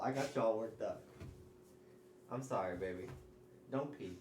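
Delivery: hushed pet talk. Real, not acted. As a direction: settle the excited dog down. Soft talk to hyped dog.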